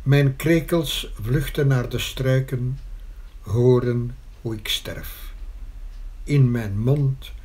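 deliberate verse reading, pausing after each line; poem recitation. Acted. Poet reciting verse on death and the mother, deliberate recitation. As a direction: recite the refrain with weight, letting lines settle.

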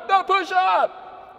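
very drawn-out echoed call; yelled-back drill response. Shown as a demonstration. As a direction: stretch it out like recruits answering. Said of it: "And you would yell back".

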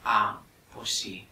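a slow, low, small murmured "pues sí"; mock timid reply. Retelling a phone caller's hesitant agreement, low and slow. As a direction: mimic the other person's hesitant, soft voice. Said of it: "Con esta voz".

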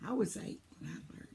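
hoarse, worn-out voice; a voice that's going hoarse; losing voice. Real, not acted. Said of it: "I'm losing my voice".

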